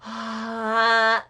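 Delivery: loud pinched nasal ah. Shown as a demonstration. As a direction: squeeze it into the nose. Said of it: "shift between them seamlessly".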